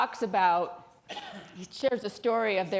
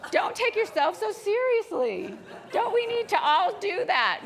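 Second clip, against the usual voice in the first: amused; 10 semitones higher, 5 dB louder than usual. Real, not acted. Still amused after blanking.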